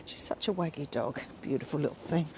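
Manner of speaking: ordinary talk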